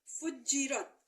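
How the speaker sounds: फुज्जिरत said fuj-jirat, jj held; doubled jeem. Shown as a demonstration. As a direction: stop on the first j of फुज्जिरत, then jirat. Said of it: "तो फुज्जी हो जाएगा".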